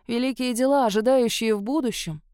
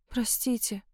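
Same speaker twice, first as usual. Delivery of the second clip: soft apology; 2 semitones higher, 7 dB quieter than usual. A narrator's reading. Girl apologises, ashamed.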